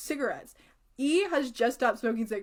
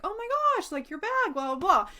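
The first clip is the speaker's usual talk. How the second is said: squealy friend; 8 semitones higher than usual. Retold or imitated. Friend E's gushy reaction voiced.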